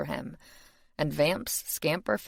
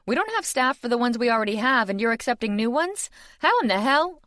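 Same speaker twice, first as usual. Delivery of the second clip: fast, higher, rising outrage; thunderous; 7 semitones higher, 4 dB louder than usual. A narrator's reading. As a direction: fume at the news. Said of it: "her face thunderous".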